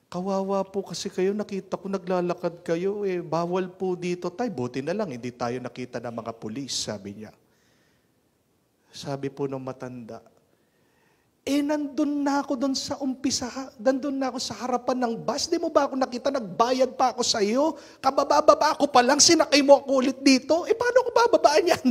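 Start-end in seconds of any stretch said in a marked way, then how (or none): 0.1-6.8 conductor. Acted. Conductor explains kindly. 11.4-21.9 high, loud, fast indignant yelling; exasperated old man. Acted. Old man scolding the conductor, shrill with exasperation. Angry old man's complaint.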